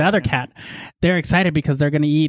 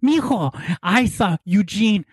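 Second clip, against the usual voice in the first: imitating Leighton; 3 semitones higher, slower than usual. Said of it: "'cause that's how he talks".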